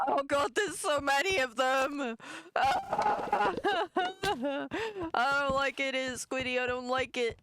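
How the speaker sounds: high, loud panicked whine; scared horror game streamer. Real, not acted. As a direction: whimper in real fright.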